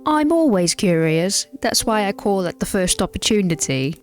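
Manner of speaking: put-on character voice. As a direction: lay the character voice on thick. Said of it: "I need to keep up the voices".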